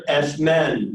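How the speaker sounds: S men said as one word; joined syllables. Shown as a demonstration. Teacher models syllables together, S men as one word. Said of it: "And together".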